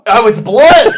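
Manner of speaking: loud laughing realization; surprised. Real, not acted. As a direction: suddenly get it, laughing.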